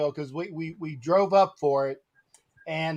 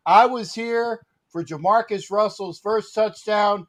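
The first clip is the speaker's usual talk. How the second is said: proud proclamation. Retold or imitated. Fan recalling Jamarcus Russell's first touchdown, proud proclamation. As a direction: proclaim it like a historic announcement.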